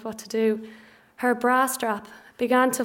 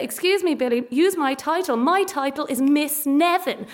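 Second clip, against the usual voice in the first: imagined proud correction; 3 semitones higher than usual. Pretend. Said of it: "proud enough to say".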